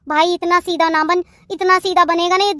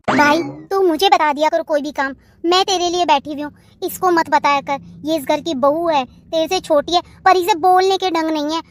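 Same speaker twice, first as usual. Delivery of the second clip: lower, calmer voice after the quarrel; calm sisterly advice; 4 semitones lower than usual. Acted. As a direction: settle down and counsel your brother. Sister advising brother after the quarrel.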